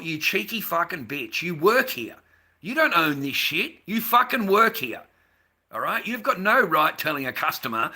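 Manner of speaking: angry retort. Retold or imitated. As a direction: let her have it, furious at the cheek. Retold rant at shop lady.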